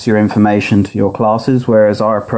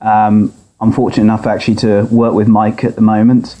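tinny audio through laptop speaker; thin, boxy speaker sound. Real, not acted. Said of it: "recorded from his laptop speaker".

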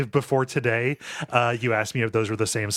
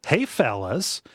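Pete White voice; 3 semitones higher, slower than usual. Acted. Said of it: "that's Pete White. That's the voice that we're doing".

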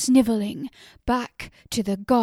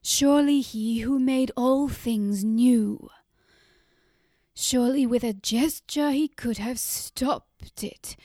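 louder, higher accusation against the god; furious railing; 4 semitones higher, 7 dB louder than usual. A narrator's reading. Mother alone with the god, railing loudly at him. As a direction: hurl each question upward in rage. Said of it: "wielded her body like a whip".

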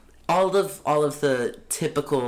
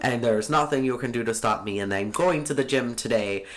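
1920s radio broadcaster. Pretend. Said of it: "You sound like a radio broadcaster from nineteen twenty".

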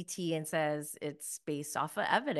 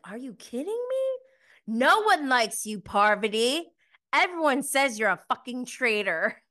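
raised, high-pitched mock tirade; retold indignant outburst, pitched up; imitating angry confrontation; 5 semitones higher, 4 dB louder than usual. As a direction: act out telling someone off, fed up. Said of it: "She is serious. She is not having it".

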